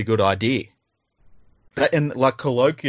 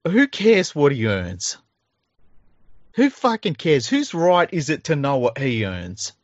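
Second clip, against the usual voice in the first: exasperated rant, pitched higher; indignant; 5 semitones higher than usual. Real, not acted. Podcast host ranting about people prying into players' pay, indignant. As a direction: protest it in a high, incredulous voice.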